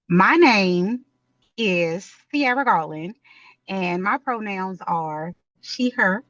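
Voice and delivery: lightly played Southern accent, slowing at the end; put-on Southern accent. Shown as a demonstration. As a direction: give your name with a touch of Southern drawl. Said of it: "in a Southern accent".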